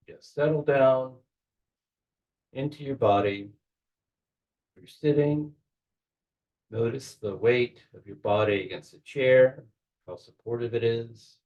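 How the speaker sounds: measured guiding voice with long pauses; unhurried guide, pausing to let each image settle; guided meditation. Real, not acted. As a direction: talk them gently into a visualization, phrase by phrase. Leads a guided visualization.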